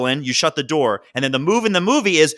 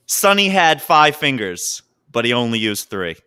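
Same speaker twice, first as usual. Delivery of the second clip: mob movie quote; 3 semitones lower than usual. Retold or imitated. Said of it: "Last quote".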